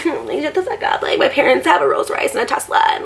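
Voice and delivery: airy, high valley girl mock voice; mock a rich valley girl, high and light; valley girl imitation. Mocking the rich girl at the show with a high valley girl voice. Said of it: "valley girly".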